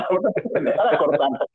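repeating the line through a laugh; amused, laughing echo. Real, not acted. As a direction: chuckle as you say it again.

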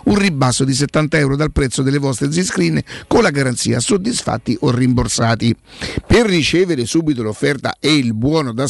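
radio ad read; infomercial. Acted. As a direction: sell it like a radio spot. Host reads sponsor ad. (lettura di uno spot pubblicitario radiofonico)

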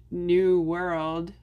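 slow, sarcastic New World; sarcastic air quotes. Shown as a demonstration. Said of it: "when I'm being sarcastic".

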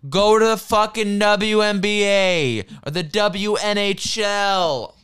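loud, high-pitched furious holler; angry yell. Real, not acted. Telling women commentators to go elsewhere, angry yelling.

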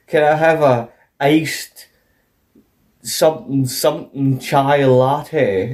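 lightly mocked telly English accent, drawn out; a hint of mock telly English. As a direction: mildly imitate a TV Englishman ordering, slowly. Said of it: "like that kind of accent".

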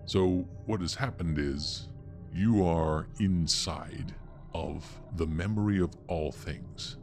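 usual speaking voice

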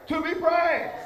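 rousing sermon cadence; fervent preaching. Real, not acted. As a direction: exhort the congregation with rising energy. Preaches at raised force.

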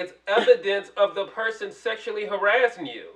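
loud, sharp, heated. Real, not acted. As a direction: raise your voice in the argument. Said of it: "Why are you yelling in the mic?".

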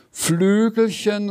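high, drawn-out offended exclamation; indignant cry. A narrator's reading. Dragon objects to having its wings belittled, indignant cry. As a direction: cry "Flügelchen" out slowly and high. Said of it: "rief er".

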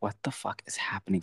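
shocked whisper. Retold or imitated. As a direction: whisper it in disbelief. Retold own shocked reaction.

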